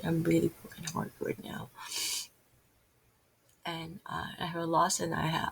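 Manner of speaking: soft, grieving confession; heartbroken. Real, not acted. Speaker confiding fear of losing a relative, heartbroken. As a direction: let the voice sink quietly with real hurt. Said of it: "my heart is hurting".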